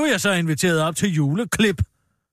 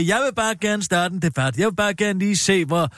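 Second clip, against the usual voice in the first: mock politician. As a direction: parody him wanting to start a debate. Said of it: "hele Henrik Sasses retorik".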